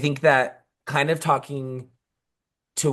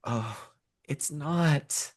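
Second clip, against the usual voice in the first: deadpan; 6 dB quieter, much slower than usual. Real, not acted. Blunt teasing denial.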